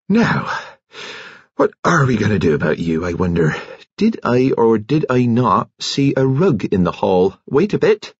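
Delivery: lightly voiced nurse, lively pitch swings; a hint of a bustling nurse; brisk nurse. A narrator's reading.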